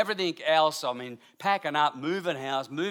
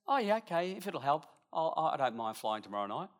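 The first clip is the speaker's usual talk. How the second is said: lovely little way; 8 dB quieter than usual. Retold or imitated. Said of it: "in her lovely little way".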